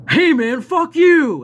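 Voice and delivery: high, loud mock yell; shouting fuck you across the room; retold yell. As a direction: yell it at him like a cornered guy. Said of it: "started fucking yelling".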